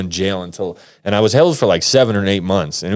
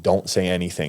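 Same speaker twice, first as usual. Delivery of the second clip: hushed warning; 6 dB quieter than usual. Retold or imitated. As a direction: quietly caution your client. Lawyer's warning beside him in court.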